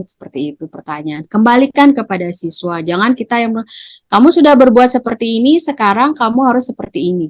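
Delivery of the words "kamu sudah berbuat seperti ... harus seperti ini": a touch of a strict order; teacher dictating the punishment; mildly commanding teacher. Shown as a demonstration. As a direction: tell the pupil what to do. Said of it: "Tidak boleh".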